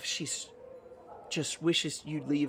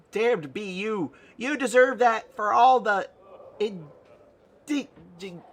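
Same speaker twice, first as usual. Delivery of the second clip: higher, louder, drawn-out melodrama; mock indignant scolding; 6 semitones higher, 4 dB louder than usual. Nanny play-acts scolding player for late nights, high and indignant. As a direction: scold like a hammed-up wronged wife.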